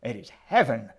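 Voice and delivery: loud, insistent preacher's cry; shrieked. A narrator's reading. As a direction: shriek it back in defiance. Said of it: "the old woman shrieked".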